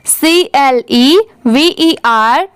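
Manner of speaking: slow letter-by-letter spelling of "सी एल ई वी ई आर"; spelling out letters slowly. Shown as a demonstration. Teacher spelling a word for students, slowly letter by letter. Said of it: "आप भी मेरे बाद हर एक letter को repeat करिए".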